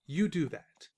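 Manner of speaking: unvoiced snide whisper; sarcastic whisper; whispered aside. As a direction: breathe it out, dismissive.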